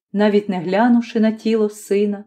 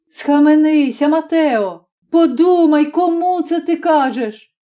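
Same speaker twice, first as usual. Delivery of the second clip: higher, louder pleading reproach; a wife shocked, stopping her husband; mother crying out against her husband's accusation; alarmed rebuke; 7 semitones higher, 3 dB louder than usual. Acted.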